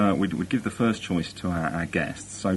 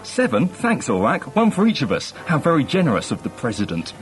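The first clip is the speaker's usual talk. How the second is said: high, chirpy wisecracking; Villa; 4 semitones higher than usual. Acted. Funny crewman jokes about seven pursuit ships, chirpy high voice. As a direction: toss off quips in a lively high pitch. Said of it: "Villa, who's the funny one, a really witty little chirpy fellow".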